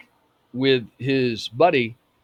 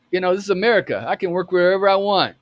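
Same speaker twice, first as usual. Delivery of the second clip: higher-pitched retold protest; defiant; 6 semitones higher, 4 dB louder, faster than usual. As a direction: stand up for your rights, louder toward the end. Retold defiant answer to intimidation.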